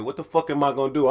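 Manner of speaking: fast, muttered to himself in a panic; panicked self-talk. Retold or imitated. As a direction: rush it out like you're panicking alone in a bathroom. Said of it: "I'm talking to myself".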